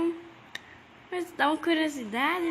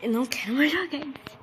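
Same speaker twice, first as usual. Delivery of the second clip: scared whisper; faster than usual. Real, not acted. Scared player wants to quit.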